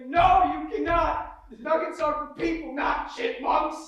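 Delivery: mock commercial shout. Actor retelling his own ad line, hammed-up loud. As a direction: ham it up like a cheesy ad.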